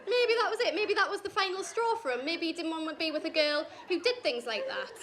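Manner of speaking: laughing. Retold or imitated. Laughing self-mockery.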